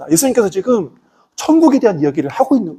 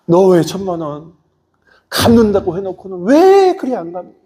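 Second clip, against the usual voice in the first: angry creditor; 3 semitones higher than usual. Acted. Creditor refuses plea, demands money.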